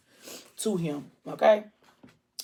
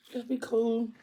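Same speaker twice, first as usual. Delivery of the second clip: higher, drawn-out hush-it-down delivery; reassuring; 6 semitones higher, 4 dB quieter than usual. Retold or imitated. Man calming her at the hospital, reassuring. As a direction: gently tell her to relax.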